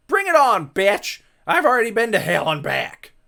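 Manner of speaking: loud high defiance; defiant taunt. Acted. Ghost defying Satan, loud taunting. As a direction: dare him to try.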